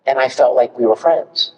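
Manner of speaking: ordinary delivery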